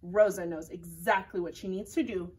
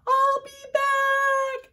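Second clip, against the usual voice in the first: higher, louder, slow menacing threat; villain threat; 7 dB louder, much slower than usual. Acted. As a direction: drawl it like a cartoon villain. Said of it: "that germ said".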